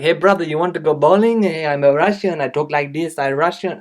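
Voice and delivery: loud, hammed-up fake Russian accent; mock a British actor's cod Russian; bad Russian accent. Reviewer mocking British actors playing Russians, bad Russian accent. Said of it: "they do this accent where they just talk like this".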